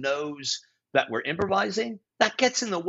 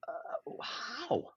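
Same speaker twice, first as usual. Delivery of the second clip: hushed, whispered disbelief; retold speechless reaction, barely any voice; stunned whisper; 6 semitones higher, 12 dB quieter than usual. Improviser stunned by colleague's critique, whispering in disbelief.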